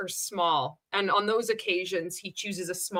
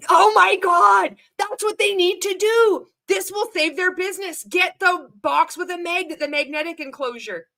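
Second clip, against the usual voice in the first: mock excitement; 9 semitones higher, 7 dB louder than usual. Real, not acted. Mocking the brand's box idea.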